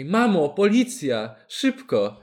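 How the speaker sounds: slow, stretched warning cry; mock lookout call. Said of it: "Chciałbym, żeby ktoś na czatach strzegł".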